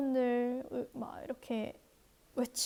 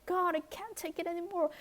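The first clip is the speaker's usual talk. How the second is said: anguished cry; 6 semitones higher, much slower than usual. Acted. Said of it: "고통스럽다듯이 울부짖었어요".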